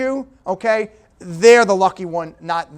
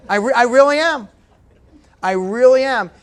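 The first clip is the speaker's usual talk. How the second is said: laughing; 3 semitones higher, 5 dB louder than usual. Real, not acted. Laughs at own low score.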